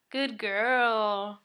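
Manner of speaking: loud cheerful praise for a dog; warm loud dog praise. Real, not acted. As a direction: praise the dog brightly and loudly. Praising dog after sit.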